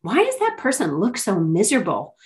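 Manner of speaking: daughter's question, lightly called out with swooping pitch; imitated loud child. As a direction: mimic a kid asking mom too loudly. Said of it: "like, really loudly".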